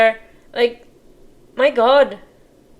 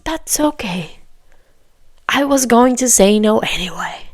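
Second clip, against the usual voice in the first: whispered imitation of the groom; hushed, mocking echo; whispered mock repetition of the groom. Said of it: "echoing groom's words".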